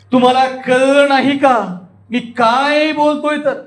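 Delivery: slow, high, stretching "कळलं" and "काय"; drawn-out emphasis. Shown as a demonstration. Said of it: "लांबवलंय".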